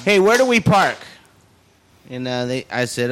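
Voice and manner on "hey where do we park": put-on higher, louder entitled-girl voice; mock ditzy woman. Imitating the pushy woman asking a parking attendant. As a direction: play the pretty entitled girl, lightly.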